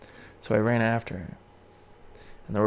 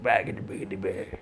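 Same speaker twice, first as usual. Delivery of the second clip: garbled mock mumble; imitated muttering. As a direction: imitate someone muttering gibberish. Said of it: "she muttered some shit".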